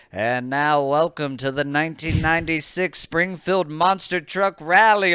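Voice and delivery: booming rally announcer; monster truck ad. Retold or imitated. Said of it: "it's like".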